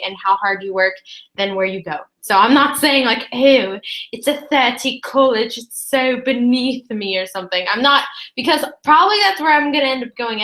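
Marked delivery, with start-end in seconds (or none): 3.3-7.2 slow, sneering snob; snobby. Pretend. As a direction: look down your nose at a lesser college. Mocking a snobby college attitude.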